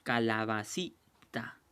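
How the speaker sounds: calabacita slowly broken into ca-la-ba-ci-ta; syllable by syllable. Shown as a demonstration. Teacher showing how to find the tonic syllable, syllable by syllable. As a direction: say calabacita in separate syllables, pausing before the last. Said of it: "Separar en sílabas y luego pronunciar".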